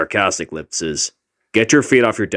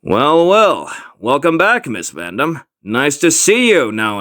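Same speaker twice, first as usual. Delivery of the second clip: sarcastic; 4 semitones higher than usual. Acted. Teacher sarcastically greets late Will.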